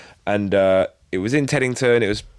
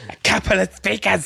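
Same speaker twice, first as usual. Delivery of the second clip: high mock Irish accent; teasing imitation of dodgy Irish; mimicked Irish accent; 6 semitones higher than usual. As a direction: parrot a botched Irish accent, pitched up. Mimicking the botched accent just heard.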